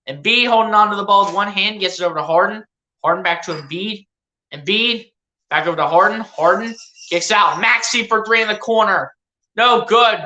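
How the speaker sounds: low, easy running commentary; lightly voiced play-by-play. Fan calling his team's game for his viewers, mild play-by-play. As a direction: call the passes like a broadcaster, understated.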